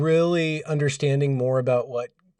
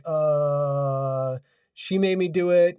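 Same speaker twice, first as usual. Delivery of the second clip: put-on whiny blaming kid; much slower than usual. Kids blame each other.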